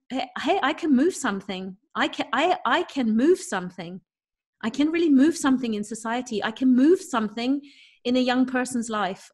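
recalling own excited thoughts, emphatic; retold excitement. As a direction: voice an eager inner pep talk. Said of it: "And then I get all excited".

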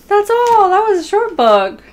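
surprised the book already ended. Real, not acted. Reader finding the book over so fast, surprised.

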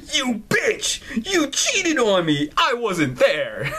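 hammed-up betrayed boyfriend outburst, breaking into laughter; mock outrage. Player voices the cheated-on boyfriend, mock outraged. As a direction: play betrayed fury, half laughing.

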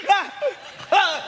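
high, punchy fake laugh; ghostly laugh. Fake spirit taunts the widow, mock ghostly laugh. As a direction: let out single hammy ha bursts. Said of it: "ba ai cười vậy?".

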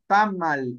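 Tamal stressed on the first syllable, TA-mal. Shown as a demonstration. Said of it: "el acento va en la primera sílaba".

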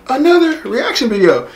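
straining a lost voice; hoarse voice. Real, not acted. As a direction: voice gone, cracking high. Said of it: "Sorry, my voice is gone".

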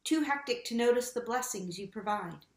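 measured, solemn confession prayer; earnest litany voice, steady rhythm. Acted. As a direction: pray it aloud for the whole congregation.

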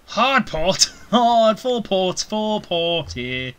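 high loud hard-port call; shouted command. Acted. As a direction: bark the helm order. Steering away from the island.

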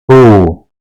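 "Hu" drawn out on a long u; lengthened vowel. Shown as a demonstration. Teacher explaining how the letter is lengthened, "Hu" drawn out. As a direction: hold the u in "Hu". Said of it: "diye uzatıyoruz".

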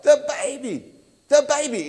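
put-on frantic interruption about the baby. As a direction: blurt it out in a panic. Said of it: "it's almost like a frantic sound".

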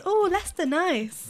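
high, cooing "oh", settling on "nice"; imitated approval. Everyone hearing she's from Leicester, imitated approval. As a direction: imitate someone pleasantly impressed. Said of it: "Everyone goes".

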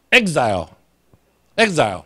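exile said slowly, stretched, eks-zile with a long i; slow, drawn-out English exile; careful exile. Shown as a demonstration. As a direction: spell out exile slowly for the class. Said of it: "来，大家做伙读一摆".

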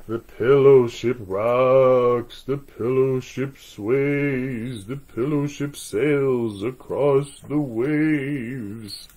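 slow, rocking bedtime read; sway the words like a gentle boat; slow lulling read. A narrator's reading. Slow rocking read-aloud rhythm.

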